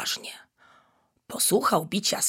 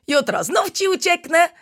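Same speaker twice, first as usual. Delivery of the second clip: higher, louder teasing call; 11 semitones higher, 4 dB louder than usual. A narrator's reading. Monkey teases the tiger as she runs off, calling louder. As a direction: call it back over your shoulder. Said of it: "zawołała".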